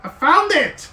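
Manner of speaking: high, loud and slow, triumphant; excited shout. Acted. Artificer finding the mark, loud and thrilled. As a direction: crow it out like a discovery. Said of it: "He goes".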